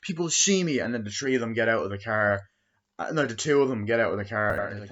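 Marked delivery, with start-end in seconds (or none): 0.0-0.8 put-on whiny teen plea. Teen begging mom not to drive up.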